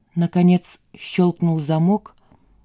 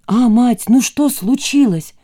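cheerful son; 5 semitones higher, 4 dB louder, slower than usual. Acted. Son cheerfully asks upset mother.

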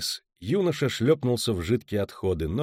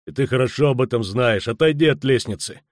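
louder, firm bouncer order; stern warning; 6 dB louder than usual. Acted. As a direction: order him off the stairs. Bouncer orders him away.

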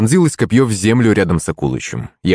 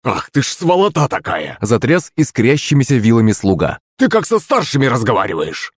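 indignant scolding; 3 semitones higher than usual. Acted. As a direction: berate an insolent opponent in raised pitch. Servant quarrelling, shaking his pitchfork.

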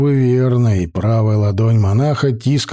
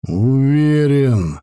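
cold and slow; much slower than usual. Acted. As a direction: say it coldly, unhurried. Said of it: "холодно сказал некромант".

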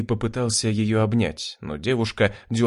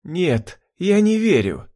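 roaring denial; 8 semitones higher, slower than usual. Acted. Jurgen refusing to believe what happened, roaring. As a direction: howl it out in disbelief. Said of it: "ревел Юрген".

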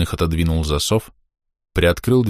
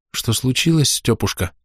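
anxious; 6 semitones higher than usual. A narrator's reading. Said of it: "тревожно спросила Ульяна".

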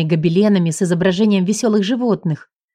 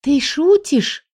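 higher, slowed astonished question; amazed gasp; 6 semitones higher, much slower than usual. Acted. The heroine to her husband, a higher slow astonished gasp. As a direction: gasp in happy disbelief. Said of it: "ахнула я".

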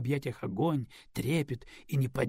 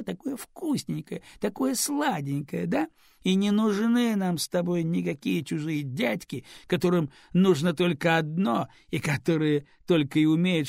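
put-on tipsy baby talk; 4 semitones higher, 4 dB louder than usual. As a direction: coo sweetly at the baby, mocking the husband. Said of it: "засюсюкала она". (пьяное сюсюканье с дочкой)

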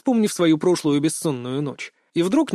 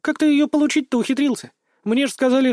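put-on lively girl voice, pitched higher; voiced as a chattering teen girl, rapid questions; Mia's voice; 8 semitones higher than usual. A narrator's reading. Girl teasing injured friend, higher lively voice. Girl's voice in story.

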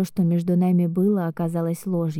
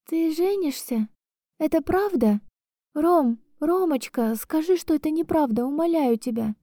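sobbing plea; 9 semitones higher than usual. Acted. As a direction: plead through tears. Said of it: "разрыдалась я в трубку".

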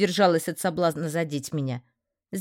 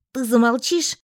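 sharp interrupt; 5 semitones higher, 4 dB louder than usual. A narrator's reading. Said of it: "перебила я его".

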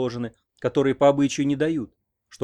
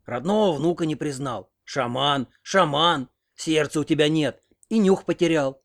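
bitter reproach; 2 semitones higher, slower than usual. A narrator's reading. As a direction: shame him bitterly. Grandmother reproaches grandfather.

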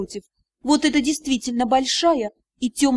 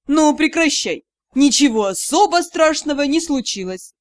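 coaxing mentor; 4 dB louder than usual. Acted. Magister tries to stop crying.

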